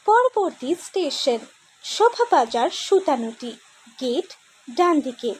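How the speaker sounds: metro announcement voice. Acted. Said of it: "the metro voice".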